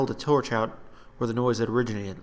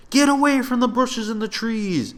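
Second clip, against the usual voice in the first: much higher, loud command; order; 12 semitones higher, 6 dB louder than usual. Acted. Gareth ordering soldiers away from the trees, loud. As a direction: bark it at the troops. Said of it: "he ordered".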